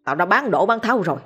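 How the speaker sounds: understated angry tirade of a father; berating, with mild anger; angry scolding. Acted. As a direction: scold a son with contained contempt. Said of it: "bèn quay lại mắng".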